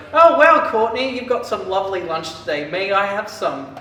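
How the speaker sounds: hammed-up delight, high loud opening easing down; impressed teacher. Teacher admiring a student's lunch, hammed-up delight. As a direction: play a mock-impressed teacher.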